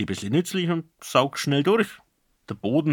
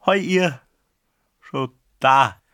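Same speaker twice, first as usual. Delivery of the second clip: squeaky embarrassed; 3 semitones higher, 6 dB louder, slower than usual. Acted. Grandfather caught by family at the door, squeaky and sheepish. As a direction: caught out, voice cracking upward. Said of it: "kiekste er mit verlegenem Grinsen".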